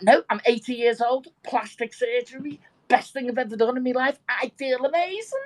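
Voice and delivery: put-on mildly excited old man's boast; proud boasting. Old man bragging to shop lady about surgery, proud boasting. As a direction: lift it up with delighted pride.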